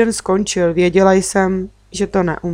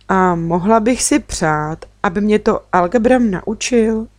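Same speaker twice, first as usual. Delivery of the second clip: opatrně; 2 semitones higher than usual. Acted. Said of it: "Zeptala jsem se opatrně".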